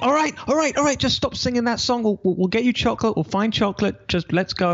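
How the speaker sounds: high-pitched frazzled mum, giving in; exasperated mother. Retold or imitated. Mother caving to her chanting son, high frazzled voice. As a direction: mimic a mother at the end of her rope. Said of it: "She's like".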